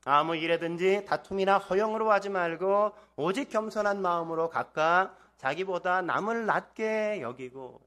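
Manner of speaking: loud, measured lead for reading together; scripture reading aloud. Real, not acted. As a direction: read the verse out firmly for a congregation to follow. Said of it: "삼 절 같이 한번 읽어볼까요". (힘주어 또박또박 성경 봉독)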